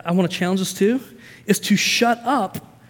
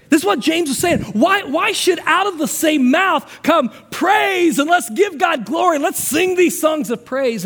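much higher and louder, slowing on the praise; forceful preaching; 8 semitones higher, 3 dB louder than usual. Real, not acted. Preacher presses James's question on the church, loud and high.

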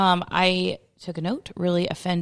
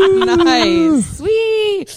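laughing; 11 semitones higher, 8 dB louder than usual. Real, not acted. Laughing delight.

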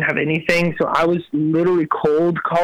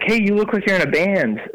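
higher-pitched quote of a curious lady; chirpy stranger; 6 semitones higher than usual. Retold or imitated. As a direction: lightly imitate a friendly stranger. Voices the lady he met.

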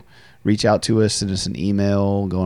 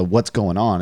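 "what's going on?" asked curtly, slightly louder, an edge of irritation; 3 dB louder, slower than usual. Shown as a demonstration. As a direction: snap out "what's going on?" as an impatient demand. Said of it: "It's not like a".

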